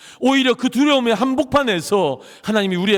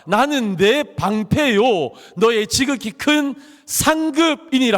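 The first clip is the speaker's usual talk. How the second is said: slow, solemn proclamation; lightly voiced majestic God; 2 semitones higher, slower than usual. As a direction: declare each word with divine weight, slowly. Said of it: "하나님께서 아브라함에게 말씀하십니다".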